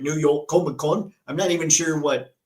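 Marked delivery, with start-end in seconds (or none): 0.0-1.1 put-on half-baked British accent on the repeat; a lightly put-on British accent, checking how it sounds; failed Michael Caine accent. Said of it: "accent that is".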